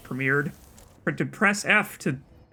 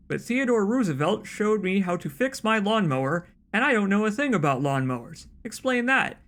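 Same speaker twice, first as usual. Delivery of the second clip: lightly acted letter-writer, higher pitch; earnest letter writer; 5 semitones higher than usual. Letter writer telling officials of presidents' spirit guides, earnest. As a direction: read it as a sincere, insistent crank. Reads letter aloud in character.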